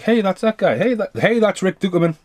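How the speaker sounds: mock-excited "hey, it's him"; imitating excited recognition. Imitating viewers spotting actors in the cast, high and eager. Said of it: "everyone you see is like".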